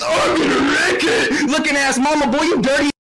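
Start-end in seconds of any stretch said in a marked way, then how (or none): 0.0-1.5 lightly voiced game brute, drawn out; slow, hammed-up catchphrase impression; mocking cartoon catchphrase, stretched out; Wreck-It Ralph. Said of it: "your mom look like Wreck-It Ralph".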